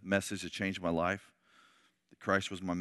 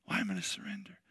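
higher, softer, boastful scoffing; mock proud; 8 semitones higher, 4 dB quieter than usual. Proud man scoffing at the call to surrender, mock boastful. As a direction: brag about your house and car. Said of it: "and you're like".

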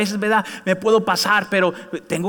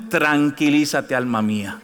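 1 soothing self-talk; 4 semitones lower, slower than usual. Shown as a demonstration. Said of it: "diga a usted mismo".

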